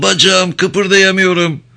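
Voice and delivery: high, loud and slow, drawn-out whimper; whining plea. A narrator's reading. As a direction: plead in pain, pitched high and dragging. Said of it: "diye sızlandı".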